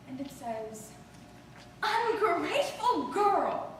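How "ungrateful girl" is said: slow, drawn-out reproach without anger; old grandmother gently disappointed; grandmother's regret. Retold or imitated. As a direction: let the words sink with sorrow, not scolding. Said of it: "not an angry voice".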